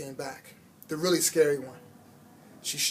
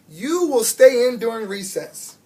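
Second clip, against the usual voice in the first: louder, stern punishment; annoyed teacher; 5 semitones higher, 9 dB louder than usual. A narrator's reading. Annoyed teacher punishing the shy girl, stern and loud. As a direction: lay down the penalty sharply. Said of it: "got annoyed with Saya".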